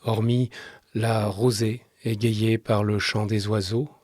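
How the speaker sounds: measured literary reading with long pauses; subdued radio storyteller, letting each sentence settle; story narration. A narrator's reading. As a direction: read the story in a calm, restrained voice.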